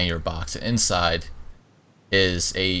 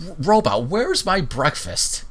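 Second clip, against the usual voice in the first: bossy order; 8 semitones higher, slower than usual. Acted. Haughty sister orders robot.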